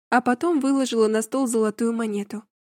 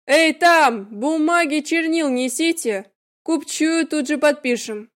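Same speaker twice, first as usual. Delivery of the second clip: calling out; 4 semitones higher, 5 dB louder, slower than usual. A narrator's reading. Uncle calling for servants.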